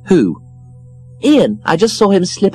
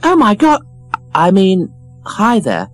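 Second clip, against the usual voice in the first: much higher, louder exclamation; gushing surprise; 12 semitones higher, 4 dB louder than usual. A narrator's reading. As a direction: gasp with delight. Christine sees Ian.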